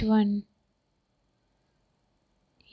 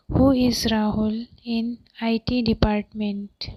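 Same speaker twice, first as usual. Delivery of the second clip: measured, with small gaps between word groups; careful dictation pace; deliberate teaching repeat. Shown as a demonstration. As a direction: spell the sentence out for learners. Teacher repeats translation more slowly.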